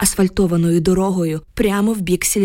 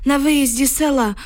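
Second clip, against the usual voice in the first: put-on higher-pitched voice of an old villager; old village man; 7 semitones higher than usual. A narrator's reading. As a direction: tell it as a worried grandpa, pitched up. Old villager's dialogue in narration.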